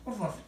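mild, soft woof woof like a dog; dog bark on cue. Pretend. Bird tells him to bark, he gives soft woofs. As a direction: answer the bird with a quiet bark.

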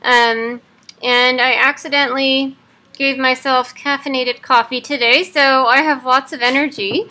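talking through clenched teeth; jaw wired shut. Real, not acted. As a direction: speak with teeth held shut. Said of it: "day fourteen of having my jaw wired shut".

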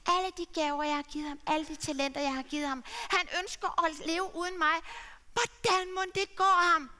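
lightly played sad father; lightly voiced grieving father. Father's inner lament.

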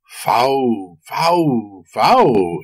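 a lightly voiced witch sniffing the air; a hint of an old witch's cry; witch exclaiming. A narrator's reading. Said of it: "exclaimed the witch".

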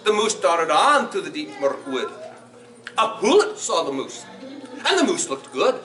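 put-on animated children's storytime in Scottish dialect; lilting, theatrical Scots storyteller; Scots story reading. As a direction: read it to children in broad Scots, with big swings. Reads Gruffalo aloud in Scots.

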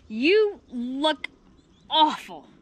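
hint of a dismayed mother's exclamation; appalled mother. A narrator's reading. Mama Hyena seeing her filthy daughter, appalled. Mother scolds child returning dirty.

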